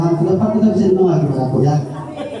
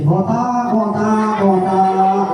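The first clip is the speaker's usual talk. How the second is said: mock taunt; 3 semitones higher, much slower than usual.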